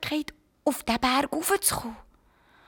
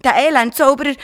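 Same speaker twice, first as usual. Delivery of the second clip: put-on pitying child voice; 4 semitones higher, 8 dB louder than usual. Garnelli pities the wizard.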